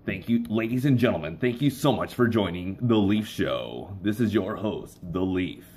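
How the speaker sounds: slow, smooth announcer read; lightly done show announcer intro; radio voiceover. Shown as a demonstration. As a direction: welcome the audience like a radio host. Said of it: "I really like to do voiceovers".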